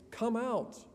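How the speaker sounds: high, loud command. Retold or imitated. Jesus summoning dead Lazarus from the tomb, loud voice. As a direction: call out as if into a tomb. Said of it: "in a loud voice".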